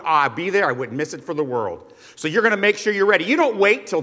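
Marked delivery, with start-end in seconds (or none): 0.0-1.9 offhand, lower "wouldn't miss it for the world"; casual promise. Retold or imitated. Preacher imitating a guest's casual promise to a host. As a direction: toss off the promise lightly, voice dropping. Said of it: "You ever said that to someone?".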